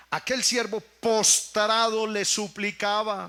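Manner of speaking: aquel siervo postrado, dicho despacio; lento y enfático. Shown as a demonstration. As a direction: recalca postrado alargándolo. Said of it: "mire, postrado le suplicaba". (lectura lenta y solemne)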